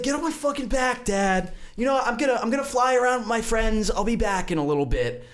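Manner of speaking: put-on high-pitched teenage-style protest to Dad; defiant son. Drunk vulture son talks back to his dad, defiant.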